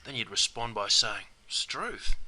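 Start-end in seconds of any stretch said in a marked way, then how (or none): 1.5-2.2 surprised exclamation, pitched up; mild surprise. Shown as a demonstration. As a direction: say it as if mildly taken aback. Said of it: "takes you by surprise".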